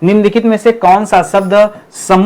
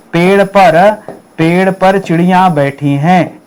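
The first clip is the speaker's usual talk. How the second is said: slow example; slower than usual. Shown as a demonstration. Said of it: "जैसे मैंने कहा".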